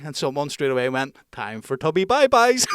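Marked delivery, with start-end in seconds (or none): 1.3-2.7 mocking taunt. Heckler's mocking parting shot.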